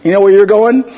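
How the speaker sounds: half-yell it as a confrontational question; imitated yell. Paul telling off those perverting the gospel, mock yelling. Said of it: "if you yell in somebody's face".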